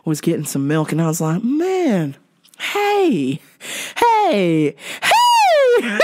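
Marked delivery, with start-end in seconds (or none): 1.4-6.0 hey shouted high with a laugh; rising catcall. Retold or imitated. Catcalling the woman in the short skirt, laughing shout. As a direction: call out to her, laughing.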